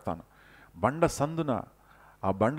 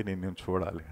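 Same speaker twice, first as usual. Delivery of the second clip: timid request; 4 semitones lower, 7 dB quieter, faster than usual. Acted. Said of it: "మోషే ధైర్యం తెచ్చుకొని".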